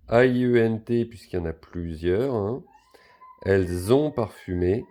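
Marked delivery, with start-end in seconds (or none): 3.4-4.1 "Elles ont" linked with a z sound; liaison sounded. Shown as a demonstration. Teacher showing pupils the liaison in "Elles ont", z sounded. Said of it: "on fait la liaison".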